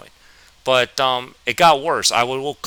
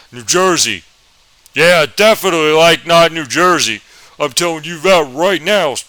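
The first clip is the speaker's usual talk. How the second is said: Southern teacher voice; 4 semitones higher, 7 dB louder than usual. Retold or imitated. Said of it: "That's actually how he sounded".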